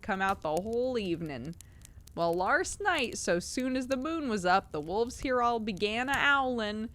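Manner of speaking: a plain-spoken keeper telling his tale; Cockney zookeeper. Acted. Reader voices keeper again.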